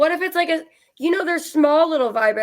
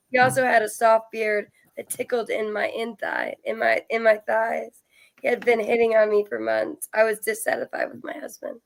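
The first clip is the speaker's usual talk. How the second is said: even, steady read-aloud voice; story read aloud. Real, not acted. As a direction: read the confession out evenly, line by line. Reads out a listener's story.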